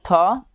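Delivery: थ as an aspirated "thuh"; TH sound. Shown as a demonstration. Teacher listing joined-letter sounds, थ sounded out with aspiration. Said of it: "संयुक्त अक्षरों का उच्चारण".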